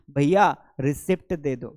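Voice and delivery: "रिसिप्ट" as ri-SIPT, the p sounded; everyday shop request with mistaken "रिसिप्ट", p pronounced; common mispronunciation. Acted. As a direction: imitate a customer asking, saying रिसिप्ट with "pt". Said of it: "हम क्या मांगते हैं?".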